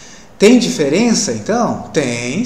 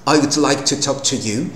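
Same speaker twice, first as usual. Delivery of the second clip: British accent. Shown as a demonstration. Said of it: "a fala é bem batida".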